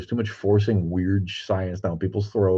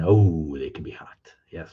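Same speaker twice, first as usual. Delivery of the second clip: whisper; 4 semitones lower than usual. Real, not acted. Aside about women, whispered.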